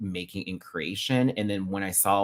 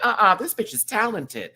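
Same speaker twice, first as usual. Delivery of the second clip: excited gush; 9 semitones higher, 5 dB louder than usual. Retold or imitated. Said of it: "I'm like".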